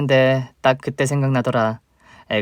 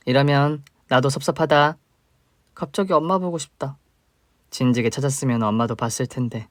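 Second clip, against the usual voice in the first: ordinary delivery, nothing marked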